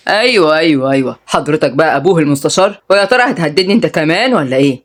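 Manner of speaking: understated, sarcastic questioning. Acted. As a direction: stretch the opening words, then needle him lightly. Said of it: "رد عمار بسخرية".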